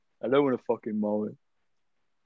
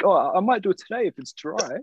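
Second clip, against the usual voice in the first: mock lazy tradie; 8 semitones higher than usual. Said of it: "he's like".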